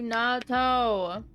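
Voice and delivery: loud drawn-out cheer; excited grateful shout. Real, not acted. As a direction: shout thanks with delight.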